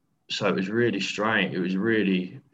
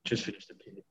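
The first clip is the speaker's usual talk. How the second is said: cutting out; 4 semitones higher, 11 dB quieter, faster than usual. Real, not acted. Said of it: "you just cut out".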